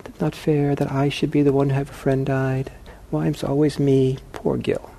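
a hint of a sulking victim voice; mock self-pity. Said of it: "I have a lot of self-pity".

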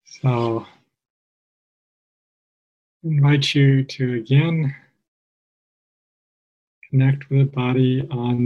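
calm, measured meditation guide with long pauses; guided meditation. Real, not acted. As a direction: guide listeners gently, phrase by phrase, leaving space.

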